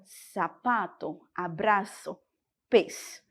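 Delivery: "sapato", "abraço", "pés" softly, with S for Z; gentle S sound in "sapato", "abraço" and "pés"; soft Spanish Z. Shown as a demonstration. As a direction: keep "sapato", "abraço", "pés" free of buzz. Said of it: "Ele é um som suave".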